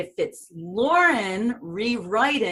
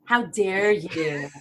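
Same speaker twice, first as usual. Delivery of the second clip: mock offense; much slower than usual. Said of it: "mock offense at the accent remark".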